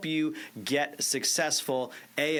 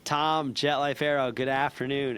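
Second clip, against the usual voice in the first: booming upbeat phone opener with a smile; forced cheerful greeting; 2 semitones higher, 6 dB louder than usual. Shown as a demonstration. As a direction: put on big energy despite feeling terrible. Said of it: "even though I feel terrible, I'm like".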